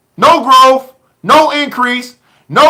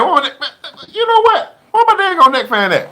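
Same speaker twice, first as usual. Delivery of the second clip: laughing; 5 semitones higher, 3 dB quieter than usual. Real, not acted. Laughing hunt for neck fan.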